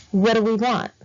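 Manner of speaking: loud rally chant call; cheerleader. Shown as a demonstration. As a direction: pump up the crowd. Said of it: "I know I sound like a cheerleader".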